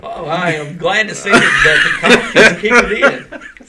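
amused, laughing remark. Real, not acted. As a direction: tease while cracking up. Amused after the goose impression.

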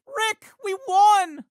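slow, loud triumphant call of victory; excited cheer. Acted. Teen celebrating a win with his grandpa, excited cheer.

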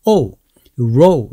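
"O" and "row" gliding from o into u. Shown as a demonstration. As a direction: round the lips through "row", ending on u. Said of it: "O와 우가 동시에 연결".

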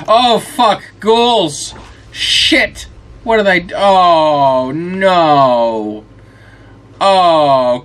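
high, loud panicked cries; startled panic. Real, not acted. Player suddenly swarmed by ghouls, real panic. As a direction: yell as ghouls jump you.

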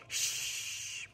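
breathy whispered shush; hushing shh. Acted. Pip hushing noisy Posy, whispered shush. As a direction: hush her so the snail stays calm.

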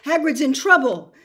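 high, loud and breathless; breathless fear. Acted. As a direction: gasp it out, terrified. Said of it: "breathing very fast".

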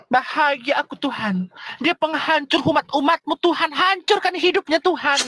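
hammed-up pleading prayer to God; mock fervent curse-prayer. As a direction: pray dramatically for her ruin. Mock prayer cursing rival.

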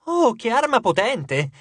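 feigned awe. Acted. Piper flattering the god's weapon, feigned awe. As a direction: pretend to be impressed. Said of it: "cercò di sembrare molto colpita".

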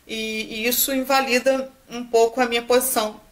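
talking through hiccups; hiccuping between words. Real, not acted. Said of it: "eu tô com soluço".

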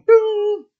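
a high, loud chirp for the phone ringing; sudden high electronic chirp; phone ring imitation. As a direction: mimic a phone going off, piu.

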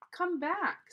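high, loud call after someone. A narrator's reading. Jack calls Annie as she climbs down, shouting. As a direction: call her back urgently.

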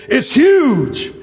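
lightly imitated campaign catchphrase; Bernie Sanders. Preacher quoting a presidential candidate to the church, light imitation. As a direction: give a hint of the politician on the stressed word. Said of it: "You know how Bernie said when he was running for president".

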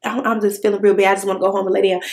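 softly voiced sick plea, mildly imitated; quiet, faint retold plea to leave; weak and sick. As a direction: sound drained and unwell. Retelling feeling sick at restaurant.

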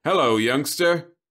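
polished TV-star robot; smooth robot greeting. A narrator's reading. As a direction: repeat it like a recorded greeting. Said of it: "so he merely repeated".

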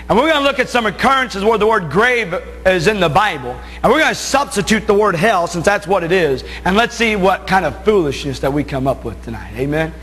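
usual speaking voice

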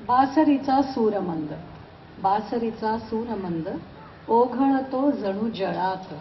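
measured Marathi verse, pausing after each phrase; emphatic openings, falling cadences; poem recitation. Acted. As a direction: recite your poem to an audience, lifting key words.

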